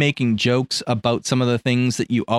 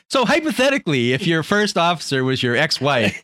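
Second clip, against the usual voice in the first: sly hypothetical; 4 semitones higher than usual. Retold or imitated. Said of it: "He's like".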